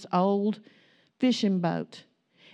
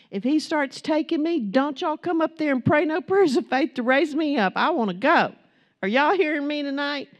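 preaching; 5 semitones higher than usual. Acted. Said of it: "preacher voicing own message to church".

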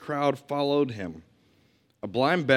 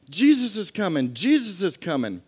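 higher, louder call down the road; yelling down the road; 6 semitones higher, 4 dB louder than usual. Retold or imitated. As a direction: call out the news from afar. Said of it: "Someone starts yelling down the road".

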